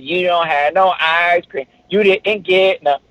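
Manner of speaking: mock Eddie Murphy kid voice; sassy kid. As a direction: tease like a cheeky child. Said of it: "me being a sassy kid".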